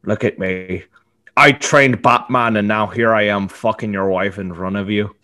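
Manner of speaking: mocking Irish boast; Irish accent. Mock Irish villain gloating over the husband. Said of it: "pretty good Irish accent".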